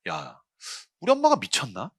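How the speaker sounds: ordinary talk, nothing marked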